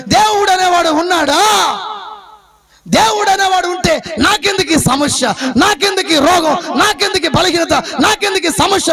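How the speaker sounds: the sick woman crying out her grievance to God; anguished outcry. Acted. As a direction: hurl the questions at heaven in despair.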